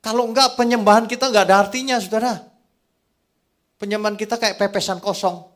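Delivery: high, loud sermon delivery; forceful preaching. Acted. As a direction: drive the point home to the congregation, loud and high.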